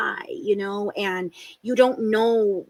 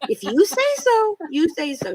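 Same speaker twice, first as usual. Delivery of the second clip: sceptical if you say so; 8 semitones higher than usual. Retold or imitated. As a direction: humor her, clearly unconvinced. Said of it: "I'm like".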